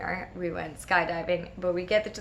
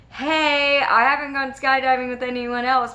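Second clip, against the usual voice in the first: high, louder acted plea; eager coaxing; 5 semitones higher, 6 dB louder than usual. Best friend inviting her to go skydiving, eager coaxing. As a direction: play an excited friend urging her along.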